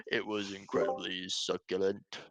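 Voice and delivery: lightly imitated eccentric interviewee, measured and deliberate; voiced at normal pitch, a touch theatrical; imitating his odd delivery. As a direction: quote him with mild mock solemnity. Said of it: "he actually just talks like that".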